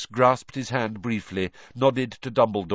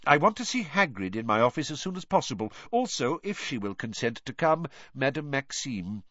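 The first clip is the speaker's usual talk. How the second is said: higher-pitched, measured leader giving instructions; purposeful headmaster, pitched up; commanding old wizard; 5 semitones higher than usual. Acted. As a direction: lay out the orders in a lifted voice.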